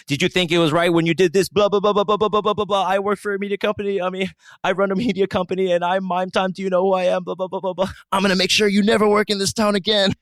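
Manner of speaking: loud, high-pitched mock tirade; angry rant. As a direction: blow up at him, blah-blahs and all. Acted angry confrontation with telemarketer.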